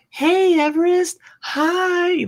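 very high, gushing hello; mock cheery teacher voice; sugary greeting. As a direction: greet the kid like an adoring teacher. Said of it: "people are like".

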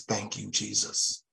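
soft, slow murmured "Thank you, Jesus"; believer's dialect. Shown as a demonstration. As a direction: say it as a quiet believer's habit. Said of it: "That's our dialect".

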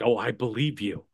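low, drily sarcastic reply; mock belief. Sarcastic reply to insincere agent.

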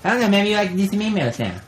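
put-on lightly held Russian accent. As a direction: keep a thin Russian accent. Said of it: "I could do a Russian accent".

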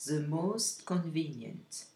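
the most convenient, slow, most stressed; slow model phrase. Shown as a demonstration. Teacher showing most with long adjectives, slowly. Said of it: "vous ajoutez most".

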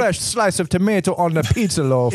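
lightly put-on ringmaster; a hint of a showman's accented voice; imitated ringmaster voice. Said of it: "ringmaster voice".

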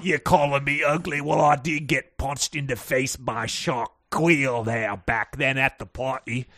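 affronted, hammed-up British accent. Co-host plays the wounded Billy, affronted British accent. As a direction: protest in a broad put-on British voice. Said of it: "give me your British accent again".

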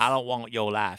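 slow mock Texas drawl; bad Texas accent. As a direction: echo the line in an exaggerated Texas accent. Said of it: "James Van Der Beek's Texas accent".

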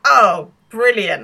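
loud, slow relish, imitating a gleeful onlooker; drawn-out, hammed-up glee; mock delight. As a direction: savour it like music to your ears. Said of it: "this is music to his ears".

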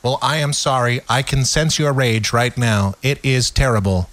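monotone, hollow mock sympathy; stiffly acted couple's argument; deadpan partner's reply. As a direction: apologize with no feeling whatsoever. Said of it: "that's some communication right there".

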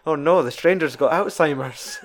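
half laughing mock alarm. Real, not acted. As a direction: giggle through the line.

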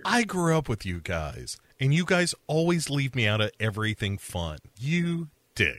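put-on sulky kid feeling excluded, rising at the end; acted petty grievance; mock left-out upset. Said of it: "upset that he wasn't cut in".

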